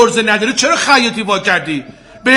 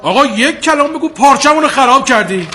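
irritated, raised-voice complaint; angry shouting; 3 semitones higher than usual. Acted. Customer accusing the tailor of ruining his fabric, angry shouting.

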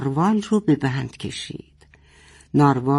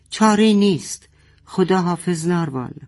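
light shout; 3 semitones higher than usual. Acted. Father shouting farewell to the narwhal, mock shout. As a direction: shout it, giving up. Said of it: "پدر فریاد زد".

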